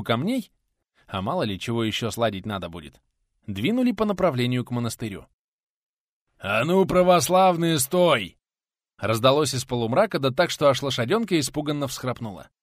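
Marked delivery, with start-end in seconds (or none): 6.4-8.4 robber's halt. Acted. Robber halts cart in dark.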